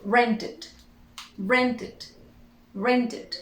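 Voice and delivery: "Rented" in two syllables, ending "tid"; "rented" with a short "id" at the end; pronounced -ed ending. Shown as a demonstration. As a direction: drill "rented" with pauses between repeats. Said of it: "how do we pronounce the E D".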